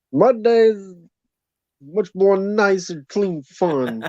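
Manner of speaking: put-on drawn-out old man voice. Joking about watching kids' shows: Bill Cosby voice. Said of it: "I'm trying to sound like Bill Cosby".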